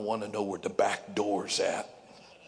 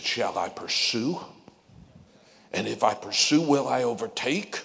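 rising preaching shout; 7 dB louder than usual. Acted. Preacher building to a climax.

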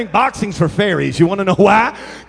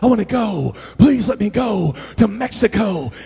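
put-on pleading teenager. Teenagers asking the youth pastor to go to Mexico, mock pleading. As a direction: lightly imitate a begging teenager. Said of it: "They'd come to me".

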